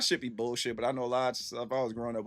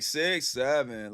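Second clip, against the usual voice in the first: drawn-out catchphrase; 5 dB louder, much slower than usual. Retold or imitated. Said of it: "he's like".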